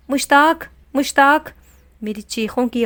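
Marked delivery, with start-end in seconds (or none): 0.1-1.5 high, loud cry of her husband's name; screaming a name. Acted. Wife screaming her husband's name down from the roof, loud and high. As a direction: call down in panic, pitched high and loud. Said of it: "دیکھ کر چلانے لگی".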